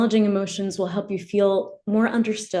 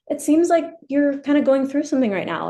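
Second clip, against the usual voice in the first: gentle noticing; 6 semitones higher than usual. Retold or imitated. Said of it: "You could say".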